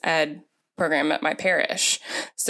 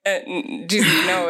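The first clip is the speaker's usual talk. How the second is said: louder, half-crying plea; mock crying plea; 3 dB louder than usual. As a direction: fake a sob as you beg. Pleading with Jesus, mock crying.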